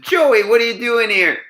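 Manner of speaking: high, bright-eyed surprise at seeing Joey; startled greeting of an old friend; surprised recognition. Retold or imitated. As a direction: call out his name, caught off guard, pitched high.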